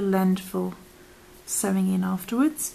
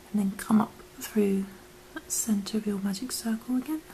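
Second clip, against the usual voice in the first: whispering; 3 dB quieter than usual. Acted. Whispered craft tutorial.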